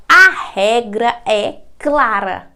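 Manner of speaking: slow, lightly mimicked referee catchphrase; a hint of a TV referee, said slowly; Arnaldo César Coelho. Teacher quoting a football referee to her class, slow and lightly mimicked. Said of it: "Como diria Arnaldo César Coelho".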